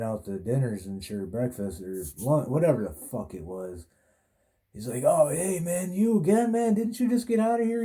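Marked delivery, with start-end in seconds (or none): 5.0-7.8 high, lightly hammed-up guard voice, pitched well up; teasing jail guard, voice jumping high; guard's mock surprise. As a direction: play the guard who can't believe you're back. Guard recognises returning inmate.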